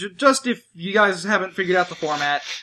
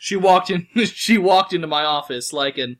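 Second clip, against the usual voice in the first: noir detective narration. Pretend. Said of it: "Am, am I doing this right?".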